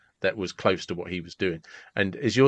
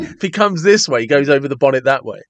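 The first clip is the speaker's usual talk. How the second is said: calculating fighter; 3 semitones higher, 5 dB louder than usual. Retold or imitated. Mimics fighter's split-second calculation.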